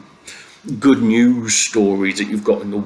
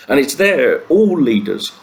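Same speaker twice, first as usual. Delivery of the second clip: emphatic rant; 2 semitones higher, 3 dB louder, slower than usual. Real, not acted. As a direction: hammer home all leaders, slowing down. Ranting emphasis on all leaders.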